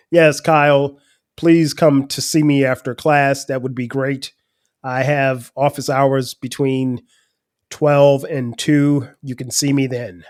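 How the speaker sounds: slow, lightly proper professor voice; a hint of a measured, formal teacher taking his time; imitating his teacher. Teacher Mister Harris answers student Kyle, slow light proper imitation. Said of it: "He talked like this".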